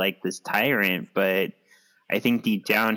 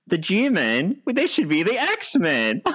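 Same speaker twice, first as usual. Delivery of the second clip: higher, giggling through the words; laughing; 9 semitones higher, slower than usual. Real, not acted. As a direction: crack up at the silly name. Mocking the team name, laughing.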